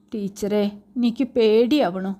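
a touch of fear in a small voice; the child confides her fear, voice just trembling; mildly frightened child. Acted. Frightened girl tells teacher she is scared, understated fear. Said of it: "അവളുടെ ശബ്ദത്തിൽ ആ ഭീതി".

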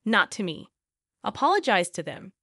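ordinary delivery

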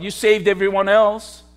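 an understated sneer, voiced for the crowd; mild mocking taunt. Preacher voicing the crowd taunting Jesus on the cross, mild mockery.

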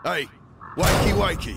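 loud sing-song taunt; mocking. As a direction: wake her up with a sneer. Captor waking his prisoner.

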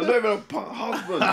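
very slow, loud outraged shout; shouting through laughter; incredulous shout. Real, not acted. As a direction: bellow it out in disbelief.

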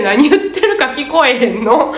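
quoting confused examinees with a laugh; half-laughing, baffled question; laughing mock complaint. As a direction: other test takers complaining about the echo, laughing. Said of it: "って周りで".

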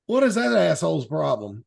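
pointedly loud, meant to be overheard; retold loud jab at a rude diner; real loud. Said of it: "real loudly as the, uh, waitress walked by".

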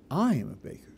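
"I" leaned on, the rest level; single out the word I; I gets the weight; stress on I. Shown as a demonstration. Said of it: "there the conscience is, "I".

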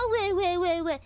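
mocking wah-wah; fake-cry to tease them. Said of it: "can you stop crying?".

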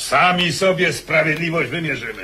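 laughing defiance; mocking laugh at the hetman's order; defiant laugh. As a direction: say it through a scornful laugh. Defiant noble threatens during quarrel.

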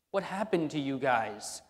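lightly voiced Jesus pleading with the disciples; exasperated outcry. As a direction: raise the voice in mock frustration. Jesus scolding frightened disciples.

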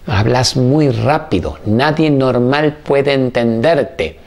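slow, deliberate scolding mother; mother's slow critique. Retold or imitated. Old mother scolding her son's TV show, slow and deliberate. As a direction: drag it out like a disapproving old mother.

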